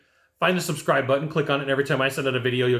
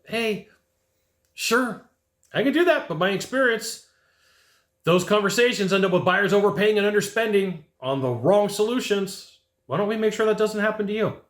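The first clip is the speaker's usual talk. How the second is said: really calm, not aggressive; 5 semitones higher than usual. Shown as a demonstration. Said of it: "Really calm, right? Really just like".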